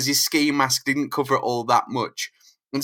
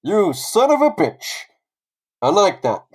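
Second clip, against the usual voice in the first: louder, higher mock-impressed outburst; grudging admiration; 6 semitones higher, 5 dB louder than usual. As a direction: curse him out, then approve, half-hammed. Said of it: "Mysterio turns around and goes".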